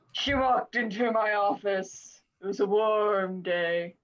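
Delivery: deadpan noir private eye; noir detective. Pretend. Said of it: "It's like".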